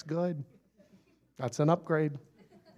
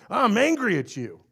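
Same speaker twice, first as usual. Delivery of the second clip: mock angry person; 8 semitones higher, 6 dB louder than usual.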